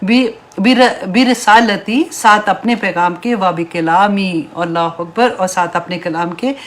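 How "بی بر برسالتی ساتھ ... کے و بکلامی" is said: halting, drawn-out recited Arabic; slow Quranic recitation. Acted. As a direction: feel your way slowly through the verse. Quranic phrase recited slowly.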